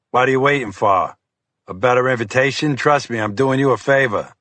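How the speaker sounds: impatient federal agent pushing him along; a hint of a brusque Boston agent; gruff FBI agent, impatient. Voices FBI agent Fiore.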